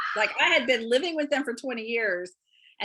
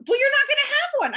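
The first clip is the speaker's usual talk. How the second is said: much higher and louder, brushing the fear aside; breezy certainty; 6 dB louder than usual. Retold or imitated. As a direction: wave the worry away with total confidence. Director dismisses the heart attack fear.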